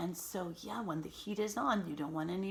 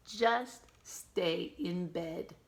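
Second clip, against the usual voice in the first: little brother voice; much slower than usual. Acted. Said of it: "my little brother said".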